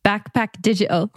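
put-on English accent that slips toward Irish; attempted English accent. Guest repeats after the host, imitated English accent. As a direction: have a go at mimicking an English accent. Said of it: "hear you do it in an English accent".

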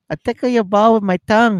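high, hammed-up Asian accent; mock foreign-accented pedicurist. Voicing the pedicurist.

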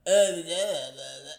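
low, slow congested groans; imitated sick groaning. Mimicking the actress who sounds sick, in low groaning noises. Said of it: "like, she sounds sick".

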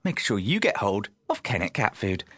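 measured pet food ad read; advert voiceover. Pretend. Host auditioning for cat food ads, mock advert voice. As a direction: sell it like a voiceover artist. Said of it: "I am up for, like, say, Kennet cat food".

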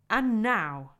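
loud, grand announcement; jolly and solemn; Father Christmas. A narrator's reading. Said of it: "said Father Christmas".

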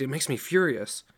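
mild furious seethe; seething anger. Acted. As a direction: spit out the fury. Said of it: "Sam seethed".

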